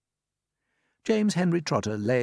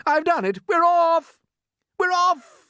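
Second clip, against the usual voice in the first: high, loud triumphant shout; 8 dB louder, slower than usual. Acted. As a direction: crow it in triumph.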